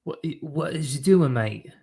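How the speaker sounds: hammed-up imitation of a baffled British promoter; Eddie Hearn impression. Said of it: "Eddie Hearn's like".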